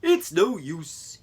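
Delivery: slow, despairing moose groan. Acted. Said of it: "he groaned".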